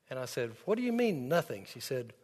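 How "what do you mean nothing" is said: surprised question. Retold or imitated. Son surprised by mom's answer.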